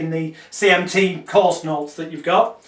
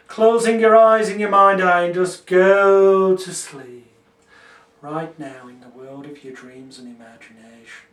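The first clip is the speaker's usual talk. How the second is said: hypnotic deepener. Shown as a demonstration. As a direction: lull them toward sleep. Demonstrates sleep deepener script.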